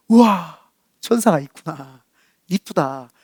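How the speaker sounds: lightly acted smitten wonder; mild awe. Boy first seeing his pretty classmate, mild awe.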